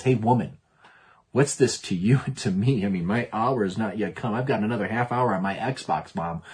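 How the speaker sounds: lightly voiced teenage back talk; a hint of a teen putting Mom off; rebellious teenager. Johnny answers Mom about dinner, mild teenage rebellion. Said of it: "sounds like a rebellious teenager".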